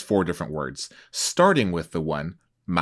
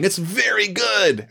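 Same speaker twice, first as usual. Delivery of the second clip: higher and slow, leaning on very; emphatic; 11 semitones higher, slower than usual. Shown as a demonstration. Host showing the meaning of very good, emphatic. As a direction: stress how good it is. Contrasting strengths of praise.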